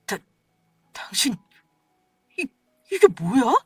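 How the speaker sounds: stammering. Acted. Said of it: "말까지 더듬으며 버벅거리고".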